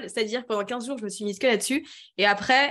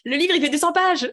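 overwhelmed disbelief; 7 semitones higher, 5 dB louder than usual. Retold or imitated. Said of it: "j'étais en mode".

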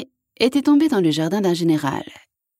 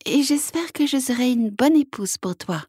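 frog voice; 8 semitones higher than usual. Acted. Frog speaks to prince.

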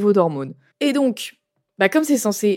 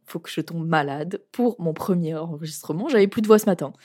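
sick, husky voice; hoarse from a cold; smoker's voice. Real, not acted. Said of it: "j'ai une voix de fumeuse".

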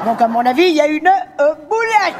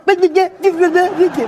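higher, rapid vite vite; mock frantic urging; 5 semitones higher, slower than usual. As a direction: hurry them along. Hurrying the speaker.

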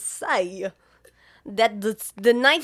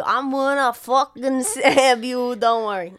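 slow mock threat; 6 dB louder, slower than usual. S1 acts Mark's threat.

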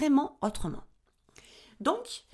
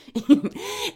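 sudden hiccup caught mid-speech; a real hiccup slipping out; 6 semitones higher, 5 dB louder than usual. Real, not acted. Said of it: "je risque fort d'avoir le hoquet".

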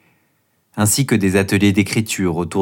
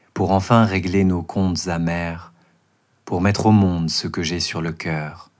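declaiming a poem. Acted. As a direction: recite it like a stage poem. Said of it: "déclamer une version courte de ce poème".

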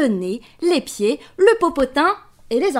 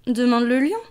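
lion voice; 5 semitones higher than usual. Acted. Lion speaks.

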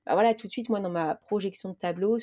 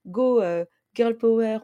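playful cheer; 2 semitones higher, 7 dB louder, slower than usual. Real, not acted. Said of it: "cheering herself on".

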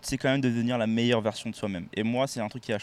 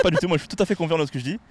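fast, higher, louder protest; emphatic denial; 5 semitones higher, 4 dB louder, much faster than usual. Real, not acted. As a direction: brush off the accusation quickly and firmly. Denies fearing her reaction.

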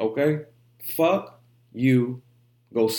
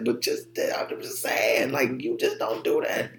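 hushed aside. Real, not acted.

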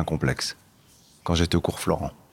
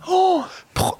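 sudden delighted high cry; excited exclamation. Real, not acted. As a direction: burst out with joy. News of getting the film.

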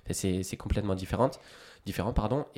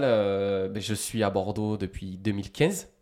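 normal talking voice

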